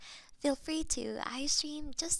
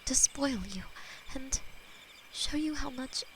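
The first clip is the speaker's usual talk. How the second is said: whispered demon lover; 4 semitones lower than usual. Acted. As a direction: hold them close and murmur tenderly as a loving demon. ASMR demon lover roleplay.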